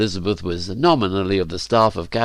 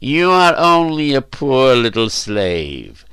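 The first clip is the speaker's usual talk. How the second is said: consoling master; 3 semitones higher, slower than usual. Acted. Master mock-consoles the slave.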